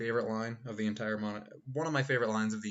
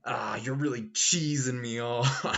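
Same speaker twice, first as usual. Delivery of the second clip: slow fused-character drawl; 6 dB louder, slower than usual. Retold or imitated. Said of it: "where he's just like".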